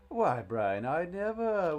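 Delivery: loud, mock-indignant gasp of a dad; offended dad. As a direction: clutch your pearls, hammed-up. Dad acting offended in message.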